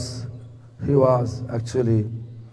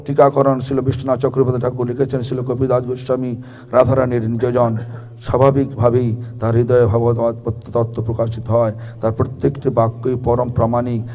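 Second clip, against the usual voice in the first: reading aloud; much faster than usual. Acted. Reads Bengali story text quickly.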